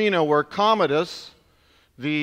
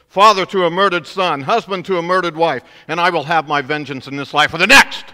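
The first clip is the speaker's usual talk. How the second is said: building defiant declaration, growing louder; movie speech; 7 dB louder, faster than usual. Retold or imitated. Gladiator naming himself to the emperor, rising defiance. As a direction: recite it like a gladiator swearing vengeance. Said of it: "delivers this line".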